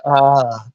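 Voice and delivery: long sighed "ah" of relief; contented sigh. Pretend. Brit finally has the tea, relieved sigh. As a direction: let out a satisfied sigh.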